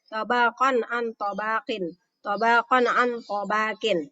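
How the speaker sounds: measured "tabaqan an tabaqin" with long vowels; deliberate recitation of "tabaqan an tabaqin"; clear reading. Shown as a demonstration. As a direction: sound each n in "tabaqan an" without humming. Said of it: "Jadi jelas dibacanya".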